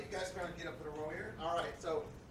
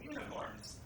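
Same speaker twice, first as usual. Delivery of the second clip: one word at a time, halting; staccato; much slower than usual. Real, not acted. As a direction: drop each word separately, with pauses. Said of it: "one word at a time".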